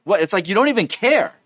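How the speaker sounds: high-pitched acted reproach; exasperated, hammed-up complaint; upset accusation. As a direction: come at them accusingly, worked up. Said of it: "comes in at you and says".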